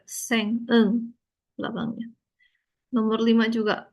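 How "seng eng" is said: "Seng", then its closing "eng" alone; final ng sounded. Shown as a demonstration. Teacher shows where eng is read, final ng sounded. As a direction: show the ng ending of "Seng" by itself. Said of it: "Nah, ini baru dibaca".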